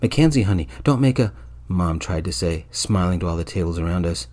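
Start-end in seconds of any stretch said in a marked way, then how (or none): 0.0-1.3 pleading. A narrator's reading. Mother pleading to avoid a scene.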